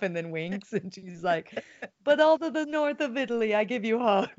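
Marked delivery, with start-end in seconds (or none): 2.0-4.3 put-on old grandma. Imitating an Italian grandma's video, old grandma voice. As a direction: do a playful old Italian granny. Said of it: "I just did some old grandma".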